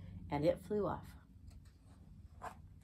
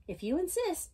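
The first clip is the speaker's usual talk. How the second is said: sweet; 9 semitones higher than usual. A narrator's reading. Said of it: "answered the friendly ladybug sweetly".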